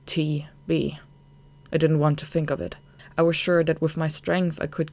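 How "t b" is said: whispered TB; whispered in fear. Acted. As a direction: breathe the dreaded word. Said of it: "I was already in tears as I asked".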